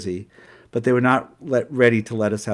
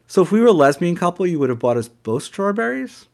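louder challenge; 7 semitones higher, 5 dB louder than usual. Retold or imitated. Quarrel with the waiter.

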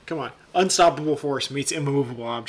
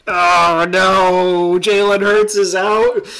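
surprised; 3 semitones higher, 7 dB louder, much slower than usual. Real, not acted. Shock at injured star player.

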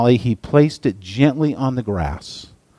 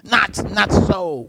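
whispered snake; 9 semitones higher, much slower than usual. A narrator's reading. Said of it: "whispered the, the snake".

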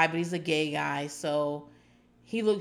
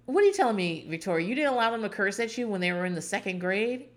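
incredulous; 2 semitones higher than usual. Real, not acted. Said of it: "I was like".

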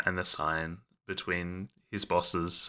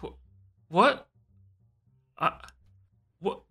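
startled what; 14 semitones higher than usual. Acted. Jacques, stunned by the surprise party, blurts a high shocked question. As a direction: jolt with disbelief.

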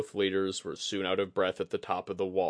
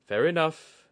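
declaring; 9 semitones higher, 6 dB louder than usual. A narrator's reading. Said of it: "he declared".

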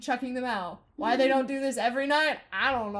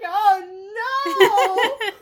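Jafar's voice; 9 semitones higher, 12 dB louder than usual. Retold or imitated. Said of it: "And then Jafar's like".

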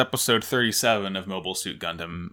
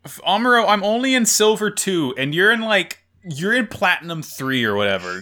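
mock Frau; 7 semitones higher than usual. Frau telling Amuro he's too good, higher mock whine. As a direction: whine it like Frau feeling outclassed.

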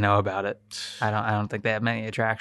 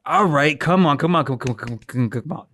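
mock impatience; 3 semitones higher than usual. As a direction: urge them on, stumbling over the repeats. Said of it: "their words came out so slow".

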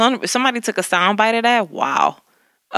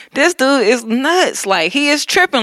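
amused quote; 5 semitones higher than usual. Retold or imitated. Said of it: "I would be, like, laughing".

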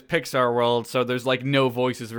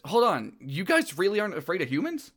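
higher-pitched incredulous question; Mike; 5 semitones higher, 4 dB quieter than usual. Acted. Monster checks the visitors don't fear humans, higher-pitched. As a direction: question them in a raised pitch. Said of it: "And Mike says".

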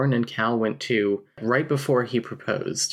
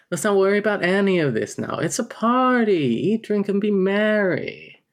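higher, louder, faster reread of the party line; Snake Jailbird impression; 9 semitones higher, 4 dB louder than usual. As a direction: play it like a smug cartoon con man. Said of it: "Snake Jailbird from The Simpsons now".

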